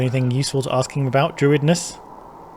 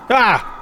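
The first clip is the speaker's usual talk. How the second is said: startled yelp; 9 semitones higher than usual. Real, not acted. Jump scare while playing.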